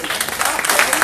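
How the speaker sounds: loud cheering praise; shout. Real, not acted. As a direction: call it out big and loud.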